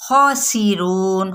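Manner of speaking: خاسرون slow, the kha full and heavy; slow recitation. Shown as a demonstration. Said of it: "خو پر پڑھیں گے".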